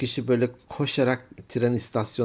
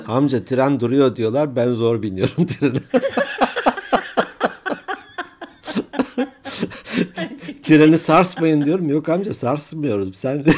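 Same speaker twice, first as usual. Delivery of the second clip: laughing; 5 semitones higher, 6 dB louder than usual. Real, not acted. Telling a funny joke laughing.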